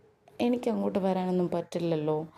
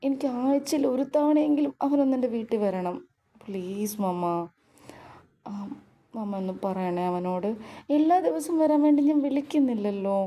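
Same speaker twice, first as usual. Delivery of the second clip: whiny pleading; 4 semitones higher than usual. Acted. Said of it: "കള്ളക്കണ്ണീരിലും പരാതി പറച്ചിലിലും".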